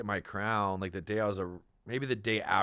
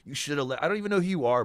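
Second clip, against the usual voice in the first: retold heated yell; 3 semitones higher, 5 dB louder, faster than usual. Telling the headhunter off, in a loud, raised voice. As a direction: half-shout the facts at him.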